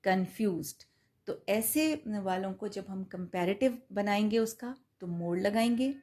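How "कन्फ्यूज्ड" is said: "कन्फ्यूज्ड" as two beats, कन then फ्यूज्ड; broken mid-word. Shown as a demonstration. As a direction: split "कन्फ्यूज्ड" between its syllables. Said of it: "एक ही सांस में हम नहीं बोलते". ("कन्फ्यूज्ड" दो सिलेबल्स में अलग-अलग)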